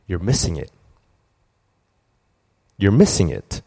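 low, gentle voice of God; lightly voiced God speaking inwardly; Holy Spirit's voice. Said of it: "this is how the Holy Spirit speaks".

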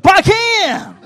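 loud, high-pitched excited call; Brazilian master. Retold or imitated. Master greets his favourite student, excited yell. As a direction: bellow it like a Brazilian coach spotting a favourite. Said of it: "he had this thick Brazilian accent".

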